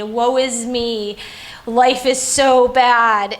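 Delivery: slow, drawn-out lament; mock self-pity. Mother quoting her old focus on her circumstances, mock self-pity. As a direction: stretch out a woe-is-me complaint, lightly mocking.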